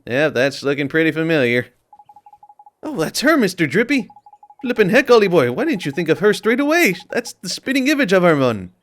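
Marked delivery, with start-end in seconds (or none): 2.8-8.7 high, brash little fairy voice; chirpy, cheeky fairy sidekick. Acted. Reads Drippy's lines in voice.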